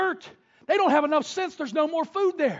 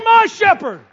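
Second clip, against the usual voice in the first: loud, "My" punched; stress on my; 6 semitones higher, 10 dB louder than usual. Shown as a demonstration. Congregation told to repeat it, "My" stressed. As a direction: call it back with "My" hit hard.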